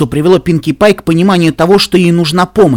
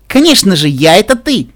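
higher, playful giggly voice; 5 semitones higher, 5 dB louder than usual. A narrator's reading. Mirror Pinkie explains herself, giggly. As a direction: say it as if about to giggle. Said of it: "хихикнула Пинки Пай".

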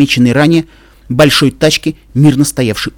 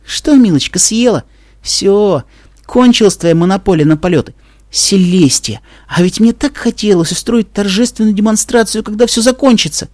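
gloating; 7 semitones higher than usual. Acted. Twilight gloats over Dash.

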